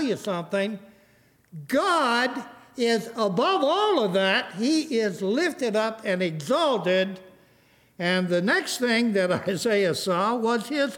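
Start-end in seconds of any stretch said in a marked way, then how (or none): 1.7-7.2 slow, ringing declaration with long pauses; emphatic preaching. Real, not acted. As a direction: preach it with weight, phrase by phrase. Preaches at full force.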